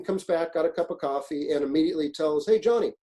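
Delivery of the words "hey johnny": calling out. Retold or imitated. Captain calling the agent.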